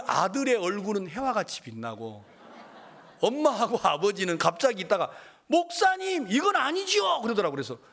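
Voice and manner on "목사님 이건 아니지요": much higher, louder cry of objection; shocked protest. Retold or imitated. Parents protesting in shock at the pastor's advice. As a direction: object in disbelief.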